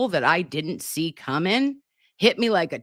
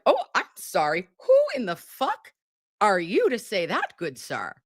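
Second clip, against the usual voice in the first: indignant retort; 2 semitones higher than usual. Retold or imitated. Streamer voicing the day's feelings at the hearing, mock indignant. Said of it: "felt a lot of feelings today".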